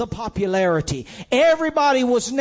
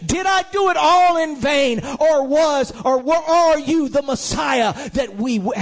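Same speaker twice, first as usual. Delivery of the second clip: anguished plea; 5 semitones higher than usual. Pretend. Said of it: "John said".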